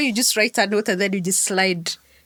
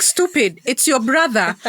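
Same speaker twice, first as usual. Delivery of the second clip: imitated exasperation, higher pitch; mock annoyed brother; 4 semitones higher than usual. Brother on phone to sister who doesn't know him, mock annoyed. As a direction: lightly play an irritated brother.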